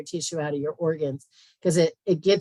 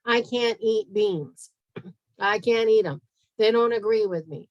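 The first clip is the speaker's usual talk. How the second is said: whiny complainer; 3 semitones higher, 4 dB louder than usual. Retold or imitated. Imitating people who say beans disagree with them, mock whine. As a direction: drag it out like a fussy eater making excuses. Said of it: "So people say".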